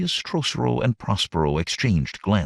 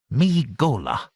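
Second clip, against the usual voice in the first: slow, higher creature voice; gentle satyr; 4 semitones higher, slower than usual. A narrator's reading. Satyr tells the Count his name, gently. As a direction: give your name slowly and gently. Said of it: "said the satyr in his gentle voice".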